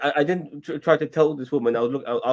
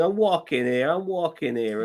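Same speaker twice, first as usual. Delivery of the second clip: mock New York accent; 5 semitones higher, slower than usual. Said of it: "I was going".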